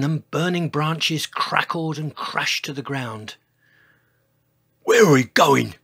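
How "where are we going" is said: loud, complaining cry; wail. A narrator's reading. Dinosaur fleeing the volcano, loud wail. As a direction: wail it out as a put-upon dinosaur. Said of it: "wailed George".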